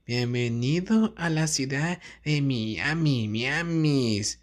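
lightly voiced Spanish announcer greeting; a hint of a city welcome voice; mock Spanish welcome. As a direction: announce it like a tour guide welcome.

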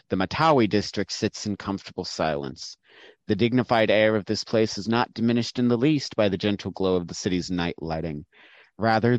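measured, read-aloud scene setting; narrated scene description; game master narration. Acted.

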